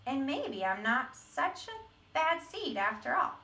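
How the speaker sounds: a hint of the seed retelling his past; lightly voiced seed. Teacher reading the seed's sad past to the class. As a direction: tell it as the seed, half remembering.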